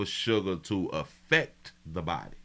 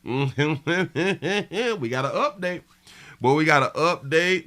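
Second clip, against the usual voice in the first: excited announcement; 7 semitones higher, slower than usual. Real, not acted. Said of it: "hyped announcement".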